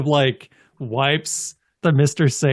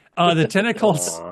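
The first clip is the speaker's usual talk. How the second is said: usual speaking voice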